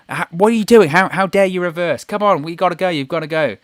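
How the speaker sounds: hammed-up official shouting how dare you; mock incredulous outrage. Adam Pearce yelling at the reversing ambulance, mock outrage. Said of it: "he's incredulous".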